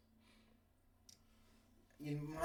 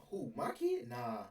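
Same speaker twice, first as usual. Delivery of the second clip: defensive mom; 4 semitones higher than usual. Retold or imitated. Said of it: "she like".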